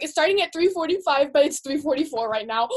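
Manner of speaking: mildly panicked, counting the minutes; retold freak-out. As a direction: act out fretting over being late. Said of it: "I was just freaking out to Vinny".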